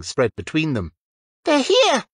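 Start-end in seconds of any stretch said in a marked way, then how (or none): 1.5-2.0 high, loud excited call. Acted. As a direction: call out to the room, much higher and louder. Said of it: "Lily called".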